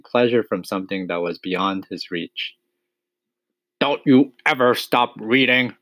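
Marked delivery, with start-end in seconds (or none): 3.8-5.7 slightly higher, testy father; mildly snapped question; a touch of irritation at his daughter; irritated snap. Acted. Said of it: "he snapped at her".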